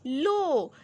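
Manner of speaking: put-on slow, drawn-out letter by letter reading for children; teacher spelling syllables slowly and loudly; slow spelling drill. Shown as a demonstration. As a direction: sound out each letter slowly, then blend. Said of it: "ग और ओ मिलके क्या बने?".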